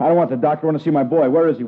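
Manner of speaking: loud, demanding father insisting on seeing his son; frantic father raising his voice. Acted. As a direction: push hard, you won't be told no. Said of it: "Would you keep your voice down".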